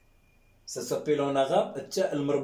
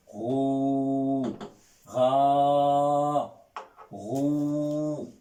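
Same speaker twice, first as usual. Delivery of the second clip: long vowel drill; much slower than usual. Shown as a demonstration. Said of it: "On prolonge".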